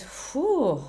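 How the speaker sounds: exhaled "whew" of pretend stress; relieved-style whew. Imagined stress before meeting.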